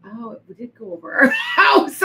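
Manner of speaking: loud, laughing astonished cry; laughing exclaim. Retold or imitated. Retelling her shock at the news report, laughing shout. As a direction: blurt it out through a laugh, amazed. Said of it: "and I'm like".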